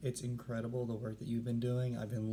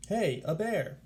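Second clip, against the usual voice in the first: higher, eager call of surprise; a hint of an explorer spotting a bear; excited discovery; 7 semitones higher, 3 dB louder, slower than usual. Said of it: "Captain Cook said".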